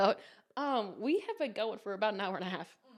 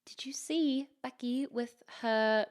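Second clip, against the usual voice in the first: hushed, snooty gossip whisper; judgmental whisper; 4 dB quieter than usual. Acted. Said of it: "Like, judgmental".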